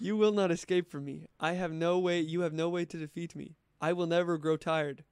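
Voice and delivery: cold threatening machine voice; menacing robot. Pretend. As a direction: play a relentless killer robot.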